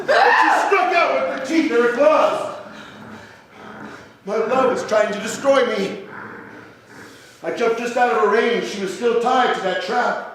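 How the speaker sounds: breathless storyteller's alarm; urgent narration. Acted. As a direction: tell it like you barely escaped. Narrating frantic attack.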